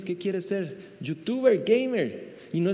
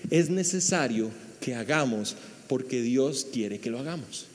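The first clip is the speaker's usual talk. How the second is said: calm Jesus; 7 semitones lower, 5 dB quieter than usual. Retold or imitated. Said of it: "que Jesús le dijo".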